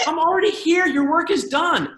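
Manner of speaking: high, loud hammed-up announcement; messaggero trionfante. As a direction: proclaim it loudly, stretching the last words. Acts out the overeager messenger's boast.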